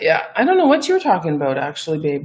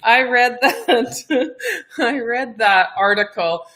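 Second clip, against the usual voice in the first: laughing; 3 semitones higher, slower than usual. Real, not acted. Laughing while retelling article.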